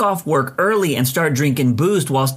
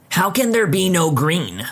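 a demanding question, slower and pitched up; 3 semitones higher than usual. Retold or imitated. Customer demanding of the clerk why there is no green. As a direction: press the clerk for an answer. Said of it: "she demands of me".

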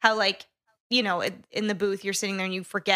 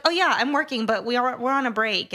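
imitating friend; 4 semitones higher, 4 dB louder than usual. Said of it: "You're like".

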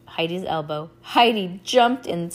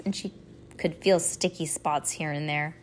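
ordinary delivery

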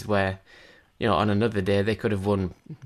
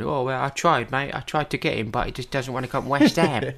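higher-pitched mock Cockney impression; Cockney accent; 4 semitones higher than usual. Club owner excusing a failed transfer bid, hammed-up Cockney accent. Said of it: "that's my Cockney accent".

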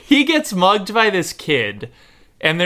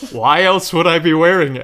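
put-on indignant kid.

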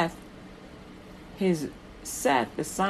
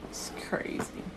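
hushed whisper; 9 dB quieter than usual. Real, not acted. Hushed aside after the murder.

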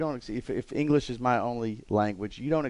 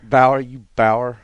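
mock insult; 8 dB louder, much slower than usual. Jokingly repeating the insult.

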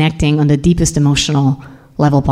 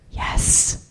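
tiny whispered admission; 10 dB quieter than usual. Retold or imitated. Wife admitting her love to her husband, whispering. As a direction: barely let the word out, in a whisper. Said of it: "I whispered".

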